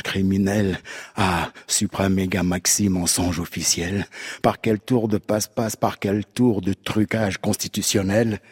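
measured, rhetorical recitation; declaimed text. Acted. Declaims a prepared satirical text.

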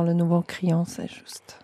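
hushed, unvoiced confiding whisper; whispered aside. Real, not acted. Interviewee whispering a confidence to the host, hushed. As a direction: lean in and whisper it like a secret.

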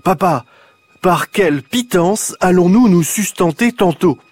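put-on loud, high, grandly old-fashioned call to papa; child loudly asking papa about dinner in old words. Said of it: "d'une voix très forte".

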